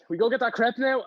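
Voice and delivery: high little voice cutting into an awkward moment; imitated friend's question. Imitating friend breaking an awkward silence.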